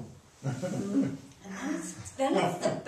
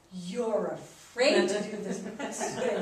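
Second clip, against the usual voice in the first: put-on taunting girl; 4 semitones lower, slower than usual. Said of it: "And she goes".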